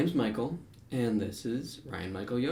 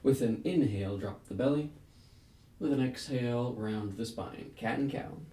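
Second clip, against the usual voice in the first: measured breath cues with long pauses between; yoga flow cueing. Real, not acted. Yoga teacher leading a class through a flow, rhythmic breath-paced cueing. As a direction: call each move on the breath, inhales lifted, exhales easing off.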